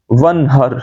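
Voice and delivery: "ونہر" with plain light h; wrong soft h. Shown as a demonstration. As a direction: breathe a simple h in "ونہر". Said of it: "یہ غلطی آتی ہے".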